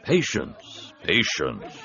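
gently calming a restless group; soothing. A narrator's reading. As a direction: settle them down soothingly. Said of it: "advised in a soothing voice".

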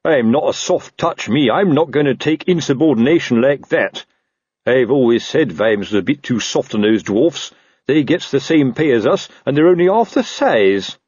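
indignant, self-important officer grumbling; lightly voiced officer airing a grievance; blustering captain. Narrator voices indignant Captain Colon.

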